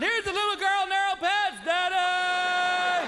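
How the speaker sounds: put-on high, excited kid yell; imitating his son screaming. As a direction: announce it to the whole store. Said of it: "Who proceeds to scream out".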